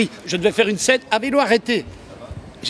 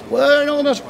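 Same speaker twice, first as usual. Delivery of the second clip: a singer's act; 9 semitones higher than usual. Pretend. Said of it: "faire comme ça".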